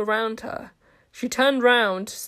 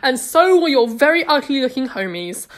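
mocking threat; 3 semitones higher, 5 dB louder than usual. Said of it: "menacing tone of voice".

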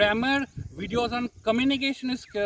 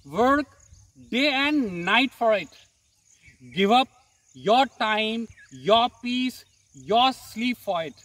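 motivational poem recitation. Acted. Poem teaser before intro.

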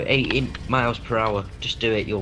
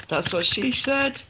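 put-on joke voice; 13 semitones higher than usual.

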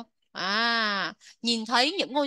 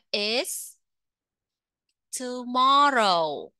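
model answer; much slower than usual. Shown as a demonstration. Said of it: "cô làm mẫu cho các bạn một câu nha".

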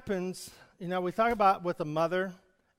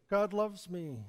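soft echo; 5 dB quieter, slower than usual. Shown as a demonstration. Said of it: "what you send out".

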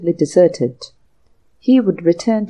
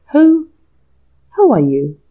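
stammering; 7 semitones higher, 6 dB louder than usual. Acted. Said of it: "stammered James".

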